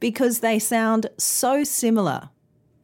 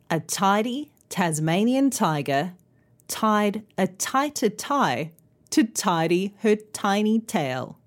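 careful tongue twister. Shown as a demonstration. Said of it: "in a tongue twister".

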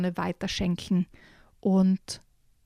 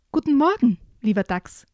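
higher cheerful raccoon greeting; friendly greeting; 4 semitones higher, 4 dB louder than usual. Acted. Raccoon greets the badger, higher friendly call. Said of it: "grüßte er".

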